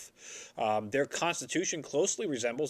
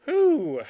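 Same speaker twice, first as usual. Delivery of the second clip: cold air breath; 13 semitones higher, 7 dB louder than usual. Real, not acted. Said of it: "you can see my breath".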